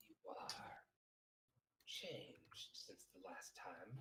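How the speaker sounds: slow, soft robotic demigod; measured, ominous robot speech; robotic character voice. Acted. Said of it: "You don't have to do the voice".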